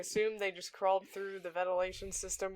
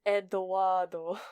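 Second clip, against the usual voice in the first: Spanish-style pronunciation; slower than usual. Retold or imitated. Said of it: "'cause you're Eduardo".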